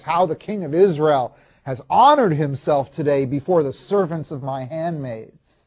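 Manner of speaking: mock him with heavy emphasis, slowing as you finish; sarcastic. Wife greets the dancing king with criticism, sarcastic. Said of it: "I could just hear her sarcastic tone of voice".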